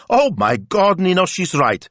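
very high, drawn-out amazed grandmother; high-pitched, slow, emphatic amusement; delighted exclaiming. A narrator's reading. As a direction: exclaim each likeness with mounting glee. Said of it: "Betta burst out laughing".

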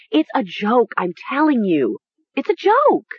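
high shrill wavering insistence; shrill and uncertain. A narrator's reading. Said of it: "suddenly shrill and uncertain".

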